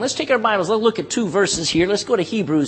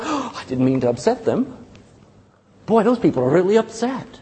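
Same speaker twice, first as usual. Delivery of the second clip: mock worried God. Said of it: "You think God's up there going".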